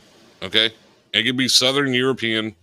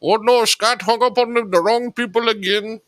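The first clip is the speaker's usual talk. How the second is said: high mock panic; 10 semitones higher than usual. Agent panicking on the call, high mock voice. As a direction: squeal a fake panicked oh no.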